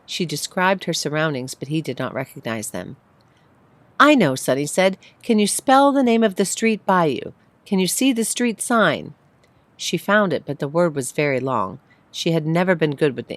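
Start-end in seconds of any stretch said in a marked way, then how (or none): 4.0-4.4 put-on excited child. Sunny eager on phone. 5.2-9.1 put-on child voice. Child voice on phone.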